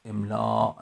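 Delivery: املا stretched, ending in a glottal stop; Arabic pronunciation. Shown as a demonstration. Teacher showing the form Persians avoid, Arabic pronunciation. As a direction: say املا as emlââ', long â then a catch. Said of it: "این تلفظ مال عرب هاست".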